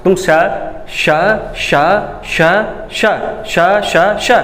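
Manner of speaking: श said three different ways, hissed air each time; teacher demonstrating the sibilant श; three sh sounds. Shown as a demonstration. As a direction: hiss out each श slightly differently. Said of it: "ये तीनों श अलग-अलग प्रकार के हैं".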